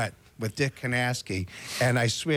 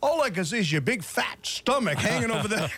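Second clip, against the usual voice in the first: mocking Dick; 8 semitones higher than usual. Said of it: "He goes".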